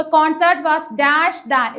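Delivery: slow, drawn-out quoted phrase; slow quoting. Shown as a demonstration. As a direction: point at the words by saying them slowly. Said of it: "കോൺസേർട്ടിനെ ആണ് ഇവിടെ".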